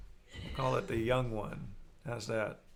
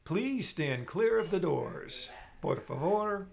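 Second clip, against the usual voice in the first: train station announcement; 4 semitones higher, slower than usual. Shown as a demonstration. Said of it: "my bad version of".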